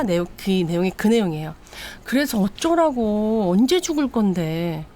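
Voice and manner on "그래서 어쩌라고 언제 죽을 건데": slow, drawn-out contempt; cold mocking. Wife sneering at her suicidal husband, slow and contemptuous. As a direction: drag each word out to belittle him.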